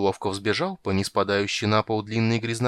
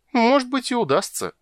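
a doubtful maybe, starting much higher; 4 dB louder than usual. Acted. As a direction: hedge with doubt. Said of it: "с сомнением заметила Тигровая".

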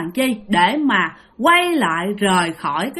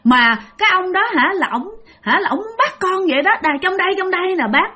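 put-on scared child; 7 semitones higher than usual. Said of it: "thì ba mới nói".

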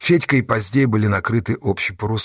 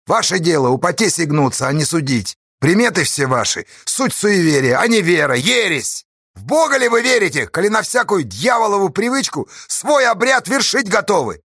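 raging sermon; 8 semitones higher than usual. A narrator's reading. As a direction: thunder at their superstition. Astash rages at superstition. (яростно кричит)

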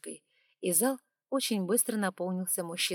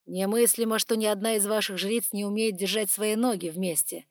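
hissing reptile growl; 5 dB louder than usual. Acted. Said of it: "прорычал в ответ дракон".

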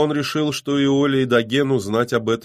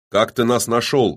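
gruffly demanding, louder; rough; 5 semitones higher, 6 dB louder than usual. A narrator's reading. Killer tired of the lovers' bickering, asking roughly. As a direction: cut in rudely with a raised question. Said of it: "грубо спросил Доген".

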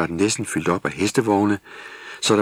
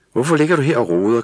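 laughing; 6 semitones higher, 7 dB louder, much faster than usual. A narrator's reading. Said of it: "grinede hun".

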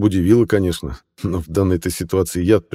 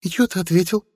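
curious witch; 13 semitones higher than usual. A narrator's reading.

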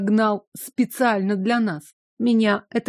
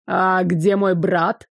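put-on slow, dim young man's voice; slow and simple-minded; naive young man; slower than usual. Youngest Rukht asks naively.

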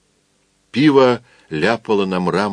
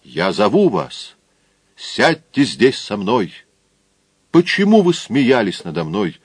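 solemn. Acted. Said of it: "торжественно сказал".

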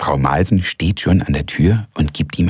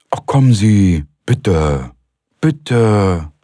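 higher, pleading woman's voice; Frau Malsen pleading; 4 semitones higher, 3 dB louder, much slower than usual. A narrator's reading. Frau Malsen begging Röpke to come along. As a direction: beg him playfully.

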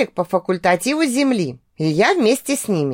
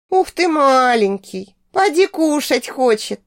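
put-on slow, higher cooing baby talk; mock baby talk; 4 semitones higher than usual. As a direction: coo at it like a pet. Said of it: "Притворно посюсюкала я".

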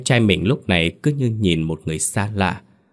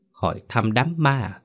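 pitched higher in disbelief; a hint of agitated disbelief; rising agitation; 4 semitones higher than usual. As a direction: throw the words back at him, higher. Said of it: "Giọng của Linh đã cao hơn".

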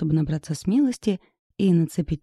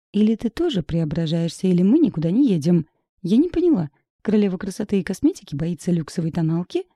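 fast, firm ultimatum with teasing end; 3 dB louder than usual. Acted. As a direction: lay down terms, then tease. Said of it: "выдвинула ультиматум". (быстро, твёрдо, с подначкой)

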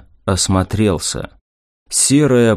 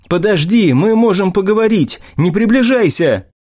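higher, panicked pleading; frightened pleading; 8 semitones higher than usual. Acted. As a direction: back away begging in fear. Unarmed man facing goblin.

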